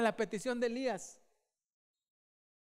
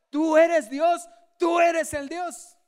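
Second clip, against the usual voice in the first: higher, louder crowd shout; 6 semitones higher, 11 dB louder, slower than usual. Retold or imitated. The people of Israel shouting after the fire, loudly. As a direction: cry it out like the amazed people. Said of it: "empezaron a gritar".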